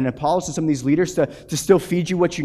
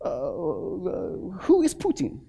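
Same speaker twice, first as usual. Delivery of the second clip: unbothered Russian pastor; 6 dB quieter, slower than usual. Retold or imitated. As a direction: shrug off the name like it means nothing. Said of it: "He goes, he goes".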